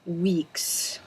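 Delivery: breathy, embarrassed whisper. Real, not acted. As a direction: drop to a whisper. Whispered aside about not posting.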